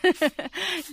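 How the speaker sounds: short chuckle before answering; laugh. Acted. Answering the surprised visitor about electricity, amused laugh.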